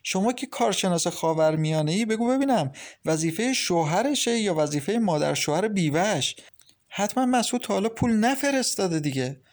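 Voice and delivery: smiling teasing. Acted. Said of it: "عاطفه با لبخند گفت".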